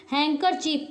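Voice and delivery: हैंकरचीफ with no D sound; silent D. Shown as a demonstration. Teacher showing learners the correct reading, हैंकरचीफ with silent D. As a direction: say हैंकरचीफ, dropping the D. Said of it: "डी इसमें silent होता है".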